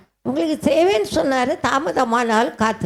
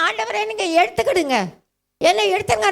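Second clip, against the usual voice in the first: higher-pitched pleading prayer, re-enacted; mildly acted cry for relief; retold desperate plea; 9 semitones higher, faster than usual. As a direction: plead with God as if in pain, retold. Retells desperate prayer during chest pain.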